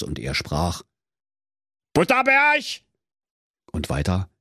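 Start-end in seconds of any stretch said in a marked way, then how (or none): 1.9-2.6 squeaky high cartoon cook voice, barking his name; cook on the phone. Cook answering his work phone, high cartoon voice.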